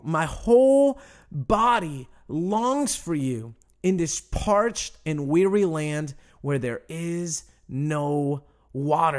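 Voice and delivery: slow, deliberate psalm reading with long pauses; scripture reading. Acted. Preacher reads David's psalm to the congregation, slow and earnest. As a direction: draw out each phrase of the prayer.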